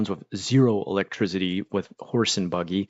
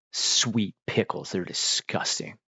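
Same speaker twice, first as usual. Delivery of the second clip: disgusted; slower than usual. Real, not acted. Streamer telling viewers sweet pickles are gross, hushed disgust. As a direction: drag out the words in revulsion.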